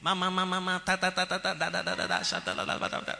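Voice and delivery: speaking in tongues babble. Retold or imitated. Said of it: "Everybody is saying the same thing".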